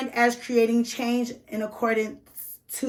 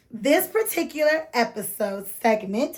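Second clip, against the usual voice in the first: tipsy. Real, not acted. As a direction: talk like you've had a drink. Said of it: "I'm a little tipsy".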